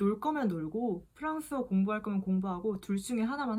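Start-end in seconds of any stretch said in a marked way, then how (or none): none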